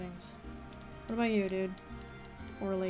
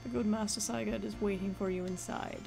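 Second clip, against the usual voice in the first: put-on old man voice. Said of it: "I'm just doing old man voice".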